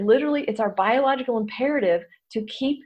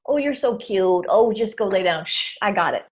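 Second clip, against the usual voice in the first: soothing a dog. Shown as a demonstration. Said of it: "barking dog technology and you go".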